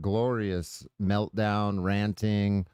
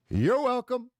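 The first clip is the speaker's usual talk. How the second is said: smug; 11 semitones higher than usual. Real, not acted. Sarcastic gloating, high burst.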